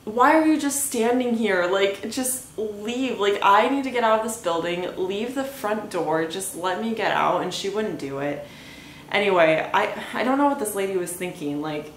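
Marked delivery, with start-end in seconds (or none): 0.1-7.4 higher, mock-angry demands at the dog owner; retold yelling at neighbor. To the dog owner blocking the door, a mild mock yell. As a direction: scold her, half-acted, from memory. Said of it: "I continued to yell at this lady".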